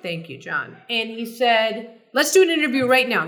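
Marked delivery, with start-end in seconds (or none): 2.1-3.3 McEnroe impression. McEnroe demanding an instant interview.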